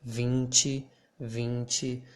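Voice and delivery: vinte with nasal ĩ like the ing in sing; vinte, nasal vĩnti; nasal vowel. Shown as a demonstration. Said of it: "would sound like this".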